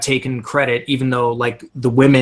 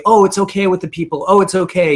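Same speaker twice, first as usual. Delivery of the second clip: light, higher, quick placating quote; mock reassurance; 6 semitones higher, much faster than usual. Host imitating Bardem's character excusing the guests, lightly placating. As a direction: mimic someone brushing off trouble, pitched up and quick. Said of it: "constantly trying to say".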